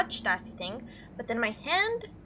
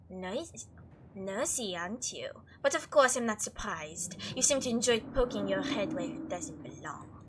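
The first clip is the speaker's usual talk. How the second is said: disdainful Frou Frou; 2 semitones lower than usual. Acted. Voices Frou Frou scolding the player.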